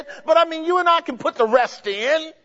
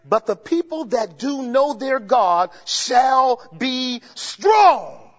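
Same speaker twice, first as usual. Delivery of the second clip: slow build to a shouted strong; climactic scripture read; much slower than usual. Real, not acted. Preacher reading Daniel to the church, slow build to shout. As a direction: build slowly and blast the last word.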